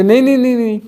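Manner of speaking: a hint of an indignant listener; protesting objector. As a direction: mildly mimic a flustered objector. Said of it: "बोलते".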